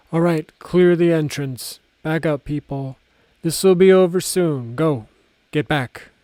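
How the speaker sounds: loud chief clearing the crowd; commanding shout. A narrator's reading. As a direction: bark orders to move back. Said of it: "the chief said".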